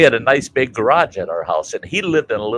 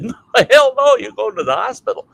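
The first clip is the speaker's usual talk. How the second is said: high, loud "No, hell no" from the doctors; firm refusal; 13 semitones higher, 5 dB louder than usual. Retold or imitated. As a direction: shut the old man down hard. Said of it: "And they said".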